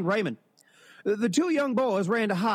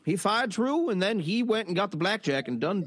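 put-on old-timey narrator; 2 semitones higher than usual. Shown as a demonstration. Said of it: "The voice".

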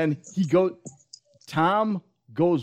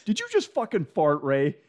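mock Cruise disgust; 4 semitones higher than usual. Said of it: "He's like".

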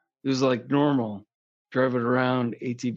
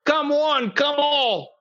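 much higher, hammed-up joking voice; goofy high voice; 8 semitones higher than usual. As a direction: squeal it like a goofy hype guy.

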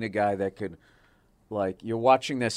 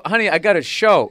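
mock exasperation; 8 semitones higher, 10 dB louder than usual. Husband protesting to wife, retold.

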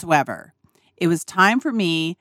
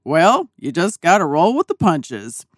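dad's calm advice; 3 semitones lower than usual. Retold or imitated. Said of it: "imagine my dad saying this".

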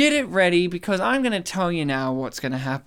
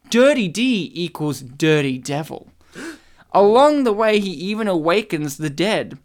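measured, portentous recital; dramatic review reading. Acted. Reading a mock-epic review to co-hosts, dramatic recital. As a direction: read it out like grand scripture.

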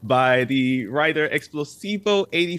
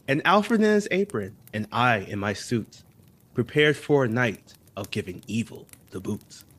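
story reading. Acted. Reads Christmas poem aloud.

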